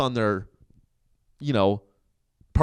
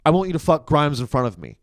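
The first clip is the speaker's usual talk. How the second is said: higher, rising mock Elon rant; mock honest Elon; 9 semitones higher than usual. Imitating the boss confessing to the Disney chief. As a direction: ham up an unhinged billionaire. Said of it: "be like".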